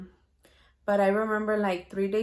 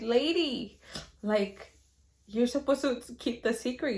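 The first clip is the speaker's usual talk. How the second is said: mildly scolding, higher-pitched retort; mock-indignant pleading with mom; exasperated protest; 4 semitones higher than usual. Daughter reminds mom about the secret, mild mock exasperation. Acted protest to her mother.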